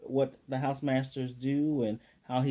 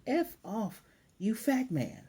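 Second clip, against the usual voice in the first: mock angry retort; 10 semitones higher, slower than usual. Viewer's retort to a sexist interviewer.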